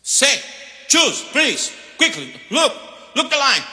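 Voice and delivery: mock rude cashier bellowing at the line; impatient cashier shout. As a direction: yell at the customer to hurry up. Impatient fast-food cashier mimicked.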